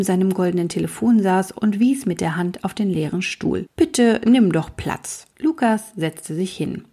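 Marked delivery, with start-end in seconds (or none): 3.8-5.3 slow, higher kindly king; a fussy king offering a chair; king's voice. Acted. The king invites Lukas to sit, slow and higher.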